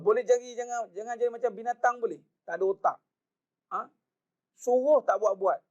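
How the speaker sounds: hammed-up harsh telling-off; harsh scolding. Shown as a demonstration. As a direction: snap it out like a blunt rebuke. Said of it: "Kan kasar macam tu kan?".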